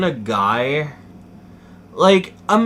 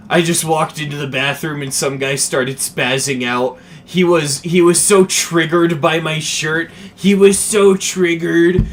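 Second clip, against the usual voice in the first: mock smug dad; 3 dB louder than usual. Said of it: "and he goes".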